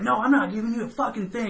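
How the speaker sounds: high-pitched imitation of a pissy woman; mock pissy refusal. Prostitute refusing a refund, pissy. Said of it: "she gets all pissy and whatnot".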